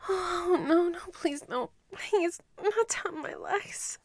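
tearful, rising pleas; anguished denial. Acted. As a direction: beg through near tears. Captive begs commander to stop.

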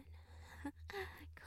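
high breathy mocking giggle; whispered giggle. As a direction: giggle under your breath at them. Mocking the pet's struggle.

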